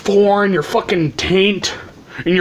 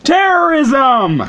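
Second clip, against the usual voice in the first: drawn-out, higher-pitched fake celebration; mock cheer; 7 semitones higher, much slower than usual. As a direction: announce it like a big prize, then cheer in mockery. Mock celebration after drum roll.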